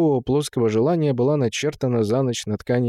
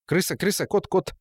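high-pitched, repetitive little chant; gleeful simpleton; 6 semitones higher than usual. A narrator's reading. Temul amuses himself while the men argue, gleeful. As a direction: chirp the words in playful pairs. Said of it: "веселился Темул".

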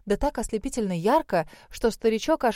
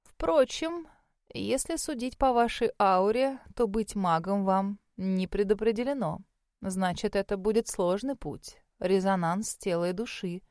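put-on softened, musing elderly examiner; old mage, pensive; 4 dB quieter than usual. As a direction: let the verdict trail quieter as you reflect. Voices the old mage assessing her. (задумчивый старый маг, всё тише)

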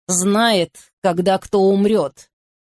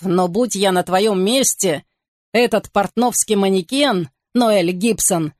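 ordinary delivery, nothing marked

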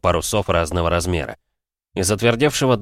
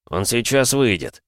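hoarse rasp; 4 semitones higher than usual. Acted. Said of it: "прохрипел Голубев".

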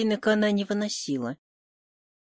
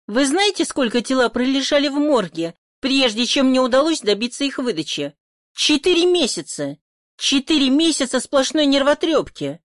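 higher and louder, exasperated complaint; indignant outburst; 5 semitones higher, 4 dB louder than usual. Acted. Hostess venting at the investigator about the morgue, indignant. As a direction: vent the months of frustration.

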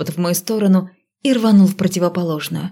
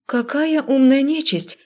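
admiring; 7 semitones higher, slower than usual. A narrator's reading. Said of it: "Не смогла не восхититься".

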